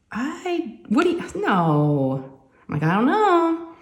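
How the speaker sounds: high, flustered stammer; caught off guard. Retold or imitated. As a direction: stall like you've been caught out. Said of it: "I was taken off guard".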